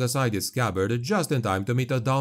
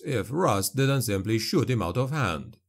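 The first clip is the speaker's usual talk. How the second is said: plain reading voice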